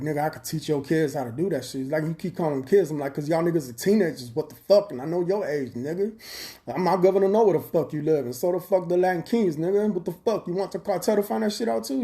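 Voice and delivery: arguing with a gang member, voice climbing loud and high; heated retort. Retold or imitated. Retelling his comeback to the gang member, heated and loud.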